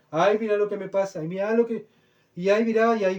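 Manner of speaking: lightly voiced complaining believer; mocking self-pity. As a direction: parody a porcelain Christian feeling sorry for himself. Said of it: "cristianos de porcelana".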